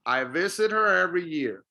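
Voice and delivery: "visit her" joined with almost no H in "her"; linked, H dropped. Shown as a demonstration. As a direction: reduce "her" to "er" after "visit". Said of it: "almost don't really hear the H".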